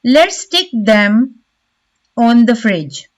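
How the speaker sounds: slow "Let's stick them", leaning on "them"; stress on "them". Shown as a demonstration. Teacher giving an example sentence, stress on "them". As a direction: give "them" weight, then pause before "on the fridge". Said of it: "The stress is on the word them".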